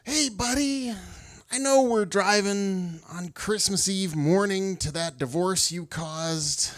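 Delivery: high, strained mock reasoning; a touch of anxious pleading; nervous reply. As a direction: plead with your wild friend, half joking.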